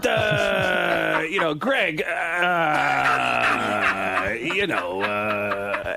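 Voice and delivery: mimicking someone who pushes off on words; drawn-out word endings. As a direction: stretch each filler into a long sliding drone. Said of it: "he pushes off on his words a lot".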